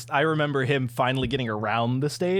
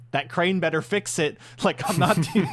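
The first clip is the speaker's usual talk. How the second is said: put-on grumpy old grandpa; 5 semitones higher than usual. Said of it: "like an old grandpa".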